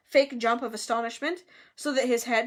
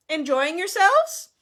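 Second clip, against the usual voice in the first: loud, slow, raised inquiry; genial host; 6 semitones higher, 7 dB louder than usual. A narrator's reading. Nick checking on his guests, genial and drawn-out. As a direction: draw it out like a proud host.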